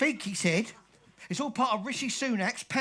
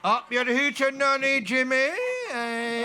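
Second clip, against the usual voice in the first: loud Scottish shout; broad Scottish accent; 2 semitones higher, 4 dB louder than usual. Acted. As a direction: bellow it in broad Scots. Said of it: "only me that ever learned to speak Scottish".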